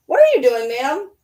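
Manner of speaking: playful scolding of a pet. Real, not acted. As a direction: tease the dog in a sing-song. Talking to the dog.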